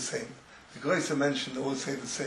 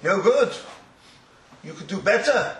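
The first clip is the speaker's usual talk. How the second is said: stern rebuke; 4 dB louder than usual. Retold or imitated. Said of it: "in front of the class, he said to him".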